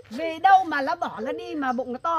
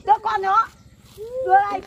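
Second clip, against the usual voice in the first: higher, forceful short commands; angry demand; 4 semitones higher, 3 dB louder than usual. Acted. Neighbour demanding he hand the child over, angry. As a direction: order it firmly, voice raised.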